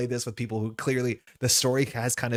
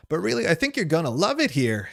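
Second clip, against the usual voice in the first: raised, higher calling-out voice; Theo; 7 semitones higher, 4 dB louder than usual. Acted. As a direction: moderate shout, as if from a truck window. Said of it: "Theo shouts from the truck window".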